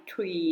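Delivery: "tree" starting on a plain t; T instead of TH. Shown as a demonstration. Teacher explaining the word becomes "tree", with a t. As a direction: say "tree" with no air between the teeth. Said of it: "ถ้าหนูไม่ออกเสียง".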